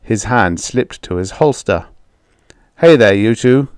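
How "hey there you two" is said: commanding call. Acted. Soldier confronts farmers.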